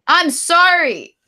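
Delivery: loud, high, drawn-out sorry; exaggerated apology. Real, not acted. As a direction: wail the apology out slowly. Exaggerated repeat apology to co-host.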